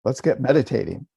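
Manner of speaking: lightly mocked get-down-to-business voice; eager meditator. Teacher imitating people sitting down to meditate, mildly brisk and businesslike. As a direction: imitate someone rushing into meditation. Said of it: "people will sit down and they'll go".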